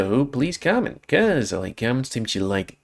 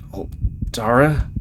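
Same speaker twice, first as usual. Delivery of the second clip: dazed question; slower than usual. Acted. Dazed recognition in nightmare.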